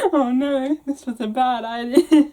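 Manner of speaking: said through giggles; amused self-mocking aside; laughing. Real, not acted.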